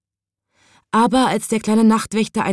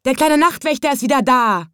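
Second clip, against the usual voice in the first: higher, gladly called out; joyful call; 7 semitones higher than usual. Acted. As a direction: announce it with joy. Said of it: "riefen die Leute".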